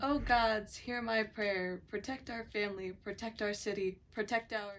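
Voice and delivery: solemn, pleading prayer to the gods; earnest prayer. Acted. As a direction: beg the gods to protect them. Queen prays to the gods.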